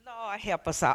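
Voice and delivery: dropped to a soft aside; hushed. Real, not acted. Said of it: "I'm just gonna whisper it".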